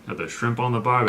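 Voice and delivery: hammed-up Australian tourist line; Australian accent. Husband tossing out a mock Australian catchphrase. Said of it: "That is the worst Australian accent".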